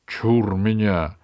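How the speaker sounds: loud, high, panicky king; frightened. Acted. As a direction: recoil in superstitious fright. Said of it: "перепугался король". (испуганный король)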